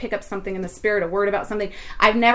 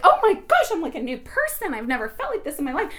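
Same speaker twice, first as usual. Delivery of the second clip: 1 excited gasp; 5 semitones higher than usual. Retold or imitated. Retelling her joyful relief.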